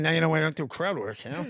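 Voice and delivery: lightly imitated comic's excuse, half laughing; Colin Quinn. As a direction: repeat it as a light impersonation. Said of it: "Said that like Colin Quinn".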